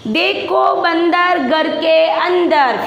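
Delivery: slow, word-by-word reading; model reading aloud. Shown as a demonstration. Teacher leading pupils in reading from the book, slow and measured. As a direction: read it out slowly for children to repeat. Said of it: "पहले आप मेरे साथ किताब का वाचन करोगे".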